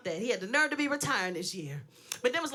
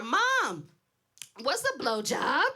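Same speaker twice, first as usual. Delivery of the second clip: calling round the corner to Mom, lightly raised; retold call out; much slower than usual. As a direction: call out a child's question to Mom. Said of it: "So I yell around the corner".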